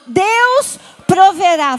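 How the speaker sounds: slow, loud proclamation. Shown as a demonstration. Congregation told to say it loud. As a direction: shout the faith out. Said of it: "Fala bem alto".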